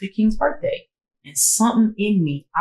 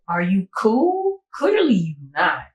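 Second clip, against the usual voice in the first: indignant confrontation; 3 semitones higher, slower than usual. Retold or imitated. Confronting the boyfriend.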